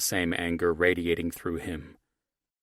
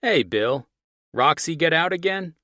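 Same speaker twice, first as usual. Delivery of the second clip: higher, louder amused neighbor; smiling voice; 10 semitones higher, 8 dB louder than usual. Acted. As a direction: greet him with a smile in your voice. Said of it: "There was a smile in his voice".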